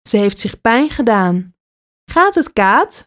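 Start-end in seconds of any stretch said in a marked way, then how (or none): 2.1-3.0 worried. A narrator's reading. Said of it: "vraagt haar moeder bezorgd".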